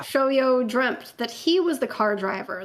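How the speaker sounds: measured, dramatic fanfic reading; story narration. A narrator's reading. Reading a fanfic aloud to friends, dramatic narration.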